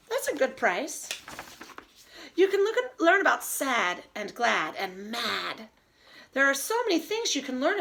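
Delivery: lively storybook read-aloud, slowing on the rhymes; reading to children. Acted. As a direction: savor each silly rhyme for the kids.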